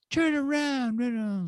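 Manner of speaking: high-pitched mock frantic command; retold frantic order. Stranded friend ordering the car back, high urgent demand.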